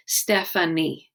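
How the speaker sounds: Stephanie spoken slowly, syllable by syllable; slow syllable count. Shown as a demonstration. Teacher counting syllables for kids, slowly. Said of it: "You say 'em slower to help you".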